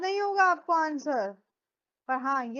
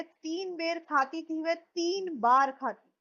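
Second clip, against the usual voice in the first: slow, careful line reading; explaining the meaning; slower than usual. Shown as a demonstration. Teacher to class, reading the line slowly to explain. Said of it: "इस line का actual meaning है".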